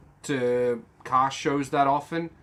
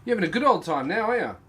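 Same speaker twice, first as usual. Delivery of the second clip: higher, fast, cooing at the little robot toy; pet talk; 5 semitones higher, much faster than usual. Real, not acted. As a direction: coo at it like a pet.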